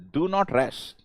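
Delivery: ordinary talk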